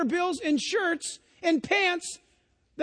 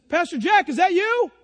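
calling across cafe; 3 semitones higher, 6 dB louder than usual. Retold or imitated. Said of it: "and he says".

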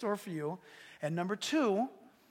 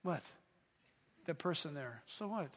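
hushed surprised aside; 4 semitones lower, 10 dB quieter than usual. Retold or imitated. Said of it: "He grabs me like this".

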